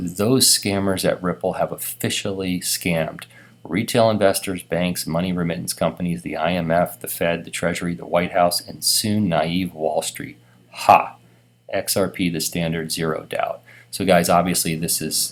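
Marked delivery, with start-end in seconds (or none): none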